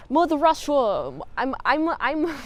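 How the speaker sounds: laughing through a clumsy mock Russian accent; a goofy half-hearted Russian accent, giggling; bad Russian accent. Vlogger mimics Chekhov's accent for viewers, a bad mock Russian accent. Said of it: "Is that a good Russian accent?".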